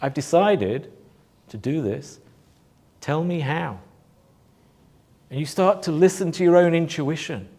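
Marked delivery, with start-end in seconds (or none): 0.0-3.8 calm expectant voice. Acted. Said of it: "curiosity and expectation".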